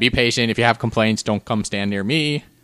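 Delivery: playful, mock-joking delivery. Retelling what a woman said about the race delay, retelling a joking remark. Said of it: "she said that in a jokingly way".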